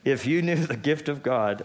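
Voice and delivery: lofty line with a laugh. Acted. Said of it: "only Jesus can talk like this".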